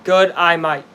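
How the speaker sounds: lightly put-on Aussie accent; Australian accent. Shown as a demonstration. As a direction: try it with an Australian twang. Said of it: "without sounding Australian".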